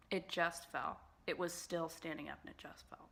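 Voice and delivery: soft breathy whisper; whispered grumble. Real, not acted. Complaining about the blush that fell, whispered.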